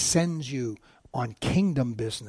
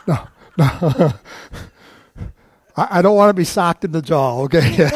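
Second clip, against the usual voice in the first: laughing; 9 dB louder than usual. Real, not acted. Playing with a volunteer.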